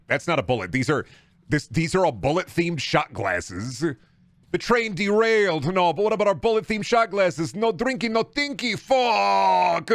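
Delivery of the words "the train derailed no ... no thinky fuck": high, drawn-out wail of frustration; high-pitched comic tantrum; mock outburst. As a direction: rant it high, ending on a long cursing yell. Mock outburst over a derailed bit.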